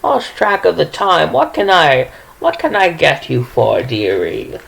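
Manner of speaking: a fussy little granny who lost track of time; sweet old woman. Acted. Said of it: "she's like".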